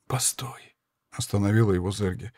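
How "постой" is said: soft unvoiced stop; whisper. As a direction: hold him back in a breath. Dying woman stops him. (Зерги останавливает Рутгера: тихий шёпот)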